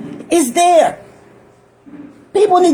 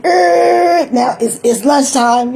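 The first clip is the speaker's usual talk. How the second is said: whistle imitation; slower than usual. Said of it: "And then".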